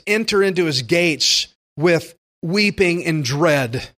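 slow, somber wrong reading of the verse; mock mournful misquote. Shown as a demonstration. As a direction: read it as if entering with dread, deliberately wrong. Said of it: "No, we're, we should be past that".

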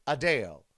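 The name said as uh-DALE; corrected pronunciation. Shown as a demonstration. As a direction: say the name rhyming with pale. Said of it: "uh and Dale".

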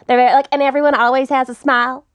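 mock twangy suburban Texas talk; Texas suburb accent. Shown as a demonstration. Host showing how Texas suburbanites talk, smiling Texas accent. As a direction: imitate Texas suburbs, as if through a smile. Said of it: "they talk like this".

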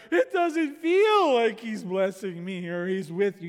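a lightly voiced doubting psalmist, slow; a touch of a weary complaint; preacher briefly voicing a discouraged psalmist. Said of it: "the rest of the Psalms are like".

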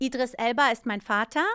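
"Idris Elba ist mein Vater" in native German. Shown as a demonstration. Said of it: "I'd say it in German".

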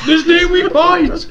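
high, loud, slow rallying shout; rally the army; heroic battle speech. Acted. Aragorn speech quote.

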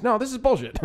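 high, indignant mock Irish outburst; Irish accent outburst. Customer resuming his complaint to the waitress, Irish accent yell. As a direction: snap back into a high put-on Irish accent. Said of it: "in an Irish accent".

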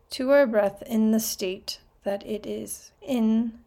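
calm, measured meditation voice with long pauses; guided meditation. Real, not acted. Podcast host guiding listeners into their breath, calm meditation voice. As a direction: guide listeners gently, leaving space between phrases.

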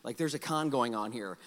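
low, soft confiding warning; explaining father. Retold or imitated. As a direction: quietly let a child in on the con. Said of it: "I try to explain to him".

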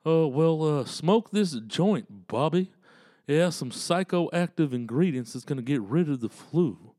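halting dad advice, a hint of character; cartoon dad. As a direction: lightly play the father counseling his boy. Plays Bobby's dad answering him.

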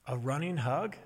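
lightly voiced toddler asking; a hint of small-child speech, rising into a question; toddler accent. Toddler asks mother about the game, lightly imitated toddler accent. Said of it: "she says in a toddler accent".

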